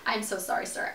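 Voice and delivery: soft, obedient little reply; meek submissive apology. Retold or imitated. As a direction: repeat it softly and deferentially. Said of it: "I don't ever talk like that".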